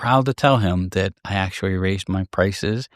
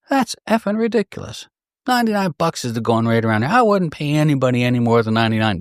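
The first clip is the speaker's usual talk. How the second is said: mock-indignant rant, starting much higher; retold angry rant; 3 semitones higher than usual. Customer at the range scoffing at the price, mock angry rant. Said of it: "he was pissed".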